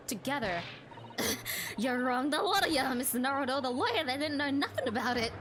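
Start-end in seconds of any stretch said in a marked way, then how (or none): 1.8-5.3 loud, indignant protest; angry outburst. Acted. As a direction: shout it back at the whole court. Witness protests the accusation.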